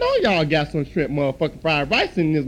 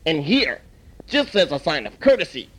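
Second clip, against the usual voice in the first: put-on calm old shop elder. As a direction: settle the fight like a wise old man. Elder owner gives free rice.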